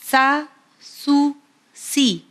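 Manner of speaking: سین زیر سی said slow and clear, vowel drawn out; teacher's letter drill. Shown as a demonstration. Teacher drills viewers on سین with its three vowel marks, slow and clear. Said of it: "اسے اس طرح ادا کرنا ہے".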